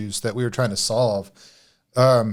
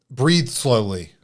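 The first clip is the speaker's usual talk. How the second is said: drawn-out calming advice; much slower than usual. Retold or imitated. Mimicking therapists' breathing advice.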